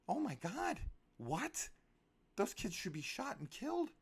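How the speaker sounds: high, loud shocked outburst; real outraged disbelief. Real, not acted. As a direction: blurt it out, truly appalled. Outraged at the film's plot.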